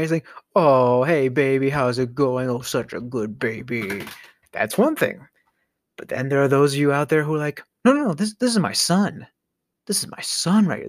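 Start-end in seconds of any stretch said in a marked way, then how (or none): 0.6-4.0 endearing. Shown as a demonstration. Owner greets the pet as baby, endearing. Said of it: "in an endearing way". 7.8-10.9 high, earnest pet-owner voice; mock insistent pet parent. Pet owner presents the son, mock insistence.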